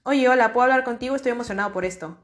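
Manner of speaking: loud hello, then rushing fast through Estoy emocionado por esto; excited sharing. Shown as a demonstration. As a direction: bubble over with the news. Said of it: "llegar con alguien y decirle".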